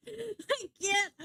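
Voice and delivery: giggling, can't get it out; breaking up mid-word; laughing too hard to speak; laughing helplessly. Real, not acted. Laughing at failed name.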